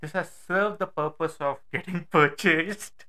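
muffled from inside a helmet; talking with a helmet on. Real, not acted. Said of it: "It would sound weird".

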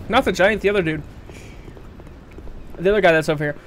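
struggling to speak, burning tongue; mouth on fire. Real, not acted. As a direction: force words past the heat. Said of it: "speaking is hard".

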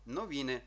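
новіни with all three syllables evenly weighted. Shown as a demonstration. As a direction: read новіни evenly, pressing on none. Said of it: "Читаємо рівненько". (новіни рівненько, за трьома складами)

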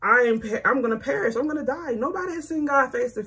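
hammed-up fear of dying; scared. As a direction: blurt it out like he's sure he'll die. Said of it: "then now he's scared".

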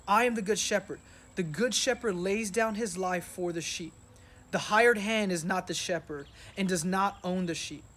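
measured reading of the shepherd verses; scripture reading. Acted. Pastor reading John ten to the congregation, measured. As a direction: read it out steadily, as scripture.

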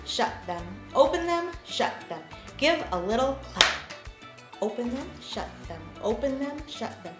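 sing-song finger play for preschoolers; kids show host. Acted. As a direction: chant it playfully for little kids. Open shut them finger play.

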